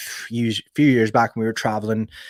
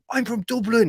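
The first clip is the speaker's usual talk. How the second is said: mock squeaky high Irish lad's voice; Dubliner's greeting; 13 semitones higher than usual. A Dublin man greeting another Irishman, in a high mock voice. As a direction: pitch it way up, imitating a cheerful Irish bloke. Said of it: "and he's like".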